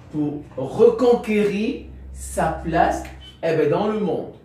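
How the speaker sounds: slow, measured reading with long pauses between phrases; careful read of a summary; reading aloud. A narrator's reading. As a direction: lay out each phrase for the class to take down. Rereads summary slowly.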